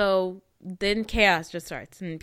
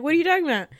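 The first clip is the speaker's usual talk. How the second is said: mock confusion; 9 semitones higher, 6 dB louder, much faster than usual. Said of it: "he's like".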